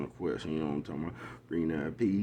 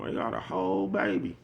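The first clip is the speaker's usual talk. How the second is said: put-on much higher, teasing Chicago girl voice; mock Chicago girl; 12 semitones higher than usual. Mocking Chicago girls he heard, much higher mock Chicago voice. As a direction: pitch it way up, mocking how Chicago girls say whole. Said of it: "Y'all be talking like them Chicago".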